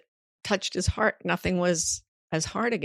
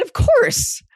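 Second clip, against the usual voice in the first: son, matter-of-fact; 8 dB louder than usual. Retold or imitated. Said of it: "He said".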